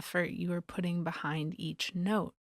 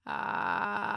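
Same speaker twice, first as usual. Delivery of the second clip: vocal fry. Shown as a demonstration. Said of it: "Try that out".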